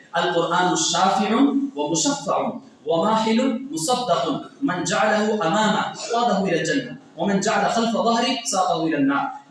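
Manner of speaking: slow, measured recitation of the Arabic; recited Arabic hadith. Acted. Preacher reciting hadith to the congregation, slow and measured. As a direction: intone the hadith with reverence.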